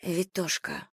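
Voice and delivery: whispered soft word. A narrator's reading. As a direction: breathe the word quietly. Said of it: "Шёпот Полины".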